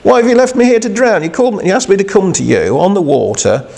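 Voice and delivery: high, fast whining protest; a hint of a panicked, indignant Peter; mock complaint. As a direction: complain like a man left to drown. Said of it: "He didn't say".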